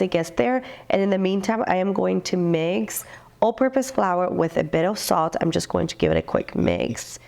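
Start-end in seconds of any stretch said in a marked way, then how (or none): 1.7-7.2 blocked nose, stuffy voice; talking with a stuffy nose. Real, not acted. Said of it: "excuse my stuffy voice".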